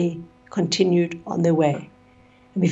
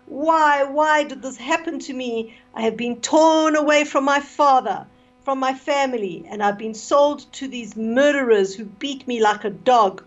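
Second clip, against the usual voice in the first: tearful plea; 5 semitones higher than usual. Acted. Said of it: "flings himself on it in tears".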